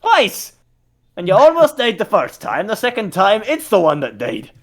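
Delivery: high, loud shocked exclamation; astonished. Acted. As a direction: gasp out the disbelief. NPC shocked at news.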